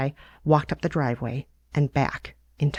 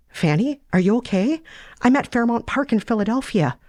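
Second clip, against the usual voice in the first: put-on lightly higher, earnest young woman; a hint of a lovesick girl, pitched up; Sarah's voice; 8 semitones higher than usual. Sarah confessing her feelings to Tanner, lightly higher earnest voice.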